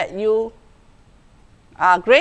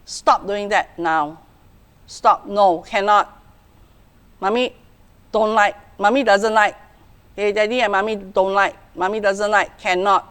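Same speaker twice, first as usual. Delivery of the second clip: stern. Shown as a demonstration. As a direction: stop the child flat with a stern voice. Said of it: "Put on a stern look and say".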